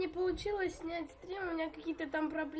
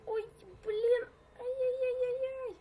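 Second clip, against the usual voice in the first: panicked; 8 semitones higher, 4 dB louder, slower than usual. Real, not acted. Panicking as a player chases him.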